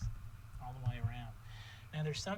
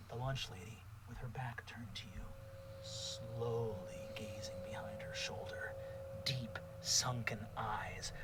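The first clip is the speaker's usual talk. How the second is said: eerie narration; 3 semitones lower than usual. Acted. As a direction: whisper the scene like a ghost story.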